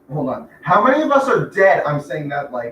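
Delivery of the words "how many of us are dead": loud shouting yell, pitch rising. On a voice call with teammates, repeating a question, yelling. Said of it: "Why are you yelling?".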